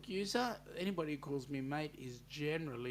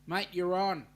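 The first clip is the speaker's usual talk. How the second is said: louder "you're on", accepting the bet; game acceptance; 2 semitones higher, 7 dB louder than usual. Real, not acted. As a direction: take the dare with a grin. Accepting a friendly challenge.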